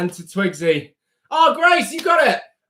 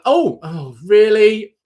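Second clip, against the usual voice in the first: surprised; 2 semitones higher, 4 dB louder, slower than usual. Real, not acted. Host reacts to a child's move.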